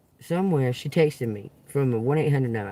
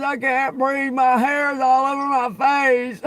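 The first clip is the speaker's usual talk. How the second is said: mimicking her distress; 9 semitones higher, 4 dB louder, slower than usual. Woman collapsing in a bathroom stall.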